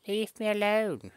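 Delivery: high, loud squeaky plea; baby giraffe pleading with the ostrich, high squeal. Acted. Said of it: "says the baby giraffe".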